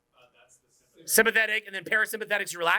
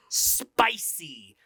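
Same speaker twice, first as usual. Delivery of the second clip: SPICY drawn out, lower pitch; 4 semitones lower than usual. Shown as a demonstration. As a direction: stretch "spicy" slowly, teasing. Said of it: "having a little bit of spicy".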